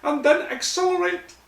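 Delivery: put-on loud, very high old Scottish coach; Scottish accent. Scottish coach orders players to run, loud high Scots. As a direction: bark it out high in exaggerated Scots. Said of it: "the old Scottish voice".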